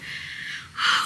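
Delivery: re-enacted breathy sigh; winded sigh. Vlogger re-enacting her voice memo, winded sigh. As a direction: puff out air as if winded. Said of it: "I am so out of breath".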